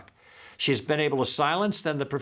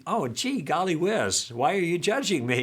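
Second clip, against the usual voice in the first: a mildly higher, guileless "gee, golly whiz"; innocent, not angry; 4 semitones higher than usual. Retold or imitated. Asking Gil back, mock-innocent and not belligerent. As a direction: play it light and harmless, no edge. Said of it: "I wasn't angry. I was just saying".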